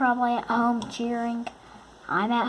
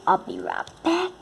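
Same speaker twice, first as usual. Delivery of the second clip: higher, sing-song call out; 9 semitones higher than usual. Real, not acted. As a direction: toss it over your shoulder, high. Calling out to a friend.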